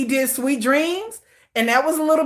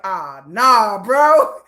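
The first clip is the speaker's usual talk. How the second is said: mock disappointed fan; much slower than usual. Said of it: "y'all gonna be like".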